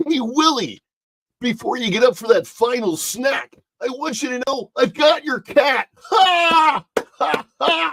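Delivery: very high, slow alien puppet voice, stretched ha. Speaker doing a requested impression for a listener, Alf impersonation. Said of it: "That's my that's my Alf impersonation".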